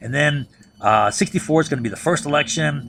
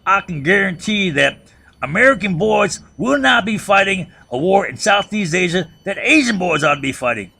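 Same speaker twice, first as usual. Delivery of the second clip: lightly imitated Texas drawl, higher; mock Texas drawl, raised for the stump; 5 semitones higher, 4 dB louder than usual. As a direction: campaign speech with a hint of Texas drawl. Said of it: "in his Texas drawl".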